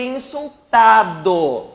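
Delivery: INSULTADO drawn out with a punched TA; stress on TA. Shown as a demonstration. Teacher contrasting it with insultador, INSULTADO stressed on TA. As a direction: break INSULTADO open on its third syllable, TA. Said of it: "a sílaba mais forte é o".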